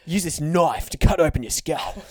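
lightly voiced Australian wildlife presenter; slow, mildly hammed-up Aussie doctor; Steve Irwin. Doctor proposing surgery to patient, slow Australian presenter voice. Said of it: "and then Steve Irwin's your doctor".

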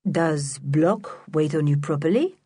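a lightly voiced, patronising grown-up; condescending Mister Lenoir. Mister Lenoir talking down to the children, patronising. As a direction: talk down to them as if they were small. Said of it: "spoke to them as if they were very small".

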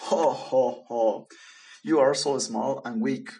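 big hearty lion ho ho ho, loud; a lion laughing at a tiny mouse, loud; booming laugh. Acted. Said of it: "Crush laughed".

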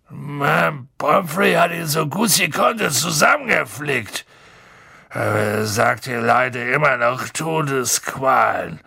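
gloomy giant, slowing down; heavy, worried giant voice; gruff Hagrid voice. A narrator's reading.

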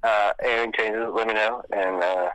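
tinny phone audio; phone speaker. Real, not acted. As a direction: voice over a speakerphone. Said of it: "You're on speakerphone right now".

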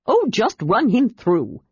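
high, drawn-out cheerful kender; cheerful cry. A narrator's reading. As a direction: pipe up gleefully in a high kender voice. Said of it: "the Kender cried cheerfully".

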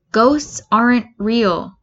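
slow, flat denial; deadpan. Acted. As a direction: say it with total calm. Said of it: "Midoriya says".

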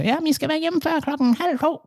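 high, prim teacher's warning voice; mock teacher voice. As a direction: imitate the strict teacher laying down the curfew. Teachers' rule quoted. (høj, formanende lærerstemme)

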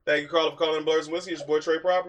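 quick, punchy radio greeting; radio host intro. Acted. Host greets caller on the radio show, punchy.

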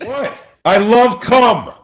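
hammed-up high shouting boast; mock shout. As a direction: yell it proudly at everyone. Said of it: "stop yelling at us".

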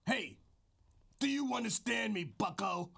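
lightly gruff wrestling promo; mild wrestler promo voice. Acted. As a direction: talk like a wrestler into the mic. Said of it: "This is my wrestler voice".

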